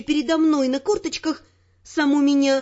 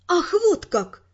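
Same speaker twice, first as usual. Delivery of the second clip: cold fury; 4 semitones higher, slower than usual. Acted. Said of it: "спросила я с холодной яростью".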